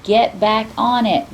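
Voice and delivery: begging. Acted. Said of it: "Nim begged".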